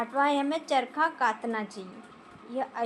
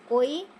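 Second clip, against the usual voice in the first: कोई said louder to mark the error; single out कोई firmly; teacher flagging कोई as wrong; stress on कोई; 5 dB louder than usual. Shown as a demonstration. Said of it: "या अशुद्ध है".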